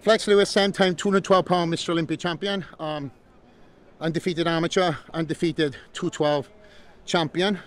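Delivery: breathing hard between phrases; winded after jogging. Real, not acted. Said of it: "Sorry, I'm out of breath".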